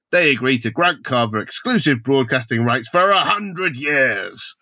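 animated prepared read; theatrical story narration. Acted. Reading out the plan to co-hosts, theatrical narration. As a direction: narrate the plot with emphatic swoops.

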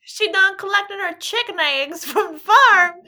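hammed-up country farmer voice; old farmer. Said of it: "when I talk like a farmer".

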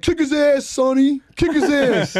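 high-pitched egging on; wannabe mafia sidekick. Retold or imitated. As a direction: imitate a tough guy's pal cheering on a fight. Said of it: "wannabe mafia guy".

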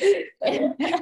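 high gasp breaking into laughter; mock-panicked gasp with a laugh; high, laughing intake of breath; re-enacted gasp. Acts out stage fright shock.

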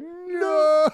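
high, drawn-out shouted no; acted frantic warning. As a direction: cry out as if stopping someone in time. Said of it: "Evan running out and be like".

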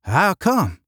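high, curious Southern drawl; lilting Southern question; Southern accent. A narrator's reading. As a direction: ask it like a Southerner. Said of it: "inquired the Southerner".

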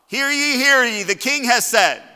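loud, high proclamation shout; full-voiced herald's call; town crier. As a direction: cry it out to all the king's subjects. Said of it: "cry out aloud".

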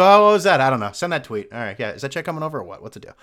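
careless athlete brushing it off, loud start; lightly voiced dismissive athlete; mock athlete shrugging off the fans. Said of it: "They go".

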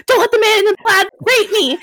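高く張り上げた叫びのまね; 通りを走りながら叫ぶのを再現して; retold yell. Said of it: "running down the street yelling".

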